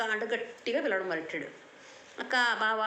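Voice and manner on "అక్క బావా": calling out to sister and brother-in-law, a touch louder; half-hearted retold yell from a hilltop; mock shout. Boy calls to the gods from the rock, mild mock yell. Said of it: "అంటూ గట్టిగా అరుస్తున్నాడు".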